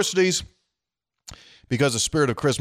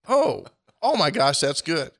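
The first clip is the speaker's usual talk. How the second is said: high, hammed-up delight; mock delighted taster; 8 semitones higher than usual. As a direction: gush over the chili like a sly guest. Acted tasting chili.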